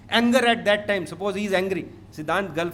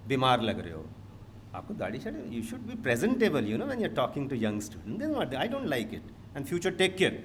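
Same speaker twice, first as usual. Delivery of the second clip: lower, softer mock reprimand with swooping pitch; imitated mild scolding; 7 semitones lower, 6 dB quieter, faster than usual. Faculty doctor tells off a bearded guest speaker, mildly imitated disapproval. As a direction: lightly mimic a disapproving colleague. Acts out Dr Mona scolding him.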